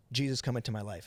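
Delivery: measured, matter-of-fact prayer prompt; prayer leader. Retold or imitated. Man leading him in prayer, steady and plain. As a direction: imitate someone leading a prayer line by line. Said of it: "Josh, repeat after me".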